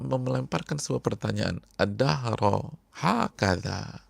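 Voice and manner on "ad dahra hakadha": pleading question. Acted. Yasir asks the Prophet.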